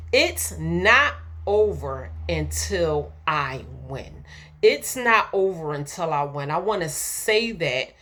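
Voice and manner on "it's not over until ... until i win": slow, with a hush before "win"; slow affirmation. Shown as a demonstration. Preacher saying the affirmation to herself, slow and measured. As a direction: say it like you mean it, pausing before "win". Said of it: "I wanna say that to myself right now".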